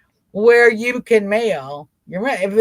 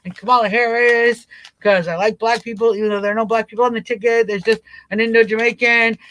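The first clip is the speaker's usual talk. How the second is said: excited mock voter. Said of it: "I'm like".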